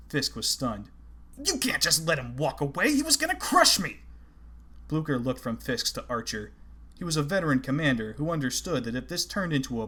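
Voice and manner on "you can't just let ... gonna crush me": frantic shout, much higher; frightened man protesting his attacker walks away; panicked protest. A narrator's reading. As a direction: shriek it out in disbelief.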